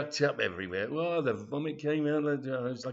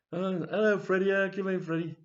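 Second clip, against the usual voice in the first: higher and louder welcome; cheery grandad; 6 semitones higher, 4 dB louder than usual. Retold or imitated. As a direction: greet the boy at the door. Grandad greets Freddy.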